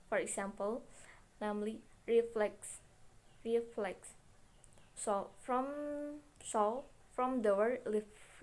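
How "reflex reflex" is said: "reflex" with short vowels. Shown as a demonstration. Teacher giving a short-vowel example, reflex said short. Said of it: "there are short vowels".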